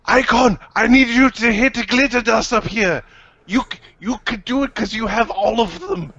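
high, urgent call to an ally. Acted. Player calls up to Icon.

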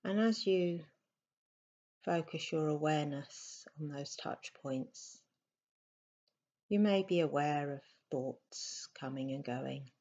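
softly spoken meditation guidance with long pauses; unhurried, slightly hushed meditation voice; guided meditation. Acted. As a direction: guide them gently into stillness, leaving space between phrases.

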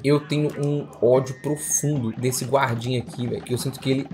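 normal talking voice

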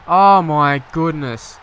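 a loud, stretched-out "Oh, my goodness"; loud drawn-out exclamation. Real, not acted. Watching his side concede, a loud stunned cry. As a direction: hold the oh long and let it burst out in disbelief. Reacting to a defensive blunder.

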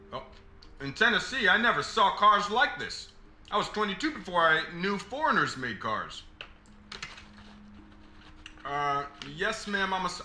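put-on light Southern accent, chatty and amazed; a Southern boy gushing about foreign cars, lightly accented. Attendant chatting up the customer about her car, in a light Southern accent. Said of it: "putting on a Southern accent".

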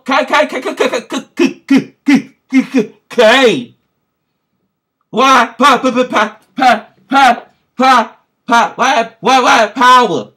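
imitating a stunned stutter; mocking shocked stammer. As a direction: stammer like you can't believe it. Mimics stranger stammering in shock.

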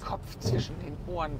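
Kopf zwischen den Ohren repeated with an amused fall on Ohren; amused self-quote. Retold or imitated. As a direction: quote your own slip, laughing at it. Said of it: "was für ein Quatsch". (sich selbst belustigt zitierend)

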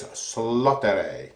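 Slottere drawn out slowly; a slow, deliberate try at Slottere; careful pronunciation attempt. Shown as a demonstration. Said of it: "I think it's".

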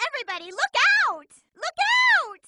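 fast, high alarmed call; urgent warning. Acted. Amy warns her team of danger, calling out fast and high.

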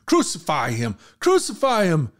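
a crowd's demand rising into a yell; mock crowd shout. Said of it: "began shouting".

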